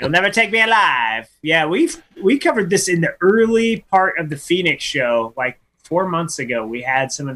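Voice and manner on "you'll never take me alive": lightly mocked gangster defiance; a hint of cornered movie mobster; old-timey gangster. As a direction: play the old-time hoodlum. Gangster catchphrase in slang bit.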